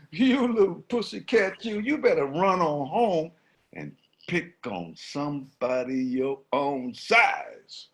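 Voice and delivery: scornful elephant. Acted. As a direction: talk down to a small pest. Elephant mocks the lion.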